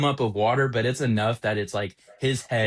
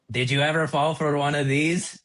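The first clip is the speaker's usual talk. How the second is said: higher-pitched put-on manager voice; affected voice of a boss, pitched up; manager impression; 4 semitones higher than usual. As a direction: imitate the manager asking a question. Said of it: "I love doing his impression every time".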